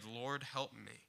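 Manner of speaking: a soft, slowed mother's plea; hushed prayer. Acted. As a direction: pray it low and humble. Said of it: "So she prayed".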